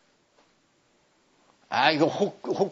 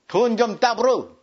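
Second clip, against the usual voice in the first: Jeolla dialect forms; 3 semitones higher than usual. Shown as a demonstration. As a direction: show off the Jeolla 불어 ending. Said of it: "전라도 말로".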